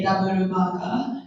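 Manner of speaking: "double burger" in Japanese-accented English, vowel-padded. Shown as a demonstration. Teacher showing how Japanese order, Japanese English accent. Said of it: "in the Japanese English accent".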